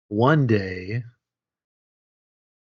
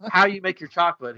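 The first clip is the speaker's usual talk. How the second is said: higher, put-on German accent; 6 semitones higher than usual. Visitor asking for the chocolate secret, mock German accent. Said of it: "he says this in a German accent".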